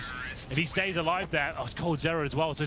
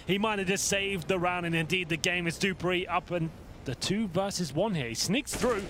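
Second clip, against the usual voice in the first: esports caster; 3 semitones higher than usual. Real, not acted. Clutch round, live commentary.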